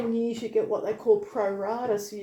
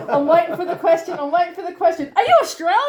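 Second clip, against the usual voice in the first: giggly, higher and louder, building to a burst; rushed laughing build-up to an excited squeal; mock eager anticipation; 7 semitones higher, 8 dB louder, much faster than usual. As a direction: act out bursting with the awaited question. Acting out anticipation of the question.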